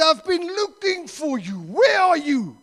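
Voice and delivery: high, loud re-enacted outburst; exasperated calling-out. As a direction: call out after a long search. Acts out finally finding the man.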